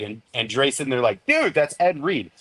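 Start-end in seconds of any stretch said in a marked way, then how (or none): 1.3-2.3 higher, slow mock exasperation; drawn-out, pitched-up "you idiot" tone; retold disbelief. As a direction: imitate a friend spelling out the obvious. Friends retold pointing out the star.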